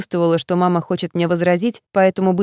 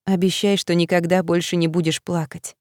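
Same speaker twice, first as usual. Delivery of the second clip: comforting; 3 dB quieter than usual. Retold or imitated. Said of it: "И приговаривала".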